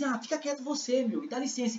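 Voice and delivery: soft, mildly acted retort; a light dismissive aside, quietly spoken; brushing someone off. Blind man answering the crowd, softly dismissive. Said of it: "Então eu fiz".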